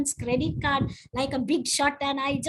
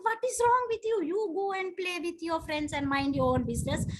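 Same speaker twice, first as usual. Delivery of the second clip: annoyed mother; 3 semitones higher, faster than usual. Retold or imitated. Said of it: "I'm like".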